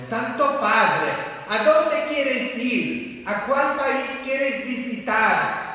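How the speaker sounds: high, loud mock-public questioning; loud acted questioning. Priest acts out people asking the new Pope, loud acted questioning.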